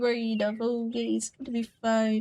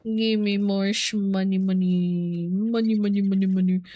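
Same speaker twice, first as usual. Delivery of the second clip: Mister Krabs impression; 3 semitones lower than usual. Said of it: "I'm Mister Krabs".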